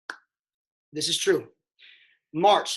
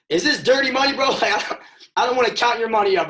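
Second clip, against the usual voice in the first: incredulous laughing disbelief; 7 semitones higher, 9 dB louder, faster than usual. Retold or imitated. Retelling his startled questions.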